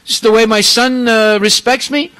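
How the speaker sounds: an insulted father snapping at his son; angry Brahma. Retold or imitated. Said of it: "So Brahma became very angry".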